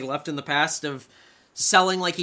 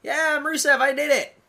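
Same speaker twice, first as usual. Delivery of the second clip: high, loud mock victory cheer; triumphant whoop; 9 semitones higher, 9 dB louder, slower than usual. Wrestler celebrating a win he didn't get, loud mock whoop. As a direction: crow like a wrestler who thinks he's won.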